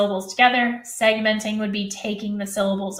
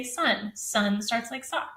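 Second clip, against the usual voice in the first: slow model answer; 6 dB quieter, slower than usual. Shown as a demonstration. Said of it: "they have to say".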